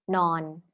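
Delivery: "non" said alone in its Thai tone; Thai pronunciation demo. Shown as a demonstration. Host answers with Thai for sleep, "non" as a pronunciation demo. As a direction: demonstrate "non" as the Thai word. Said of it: "In Thai, it would be".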